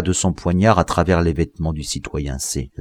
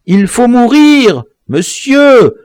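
loud, much higher, strained; tense man forcing himself to kill; frantic killer; 9 dB louder, slower than usual. A narrator's reading. The mixed-blood man answers his victim, high and frantic.

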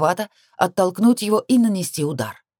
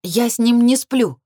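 loud, high, slowed denial; fierce retort; 7 semitones higher, 5 dB louder, slower than usual. A narrator's reading. Heroine denies the affair to her commander, fiercely. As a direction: snap back hard, stretching each word. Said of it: "отозвалась ожесточённо".

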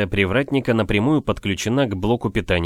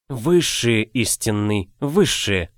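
mocking exclamation; slower than usual. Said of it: "с усмешкой ... воскликнул".

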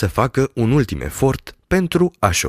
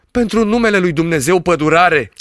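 louder, frightened plea; frightened cry; 5 semitones higher, 4 dB louder than usual. Acted. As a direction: cry out in fear for him to stop. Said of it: "strigă înfricoșat doctorul". (strigăt înfricoșat, mai tare)

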